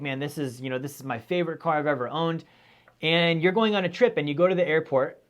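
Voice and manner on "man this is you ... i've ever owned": proud owner. Retold or imitated. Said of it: "you're proud of it".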